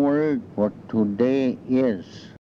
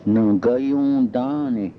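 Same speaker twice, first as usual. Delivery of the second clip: nagayundane drawn out slowly, syllable by syllable; slow careful repeat; slower than usual. Shown as a demonstration. Teacher repeats the word slowly for students to copy. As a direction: stretch out nagayundane so learners catch every sound. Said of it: "Don't tell".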